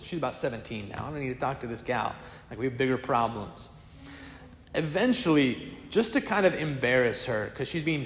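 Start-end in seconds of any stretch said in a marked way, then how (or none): 1.1-3.7 low, soft, offhand brush-off; dismissive. Retold or imitated. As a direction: brush them off as beneath your notice. King dismisses the girl.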